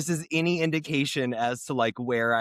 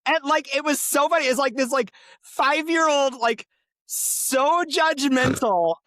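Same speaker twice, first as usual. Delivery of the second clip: high, loud, laughing disbelief; laughing through it; 14 semitones higher, 5 dB louder than usual. Real, not acted. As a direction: tell it while barely holding the laughter. Laughing while retelling.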